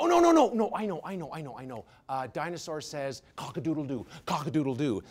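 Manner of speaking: mock silly answer. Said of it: "And they go".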